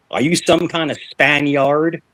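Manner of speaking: slow, lightly imitated country father; country dad voice. Farmer dad asking the boyfriend, slow mild imitation. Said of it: "That's how he sounded".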